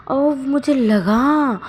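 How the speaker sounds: slow, high, loud pained cry; ow it hurt. Acted. Wing, slammed onto the bed, cries out slow and high in pain. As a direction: wail that it hurt after the fall.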